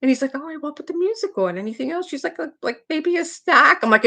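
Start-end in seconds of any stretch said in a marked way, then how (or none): 0.3-2.1 high-pitched imitation of a coaxing dad; lightly voiced father humoring his daughter; father to upset child. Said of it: "her father goes". 2.4-3.8 put-on high, loud weepy child voice; mock pouty blubbering; imitated crying. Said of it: "She's just crying".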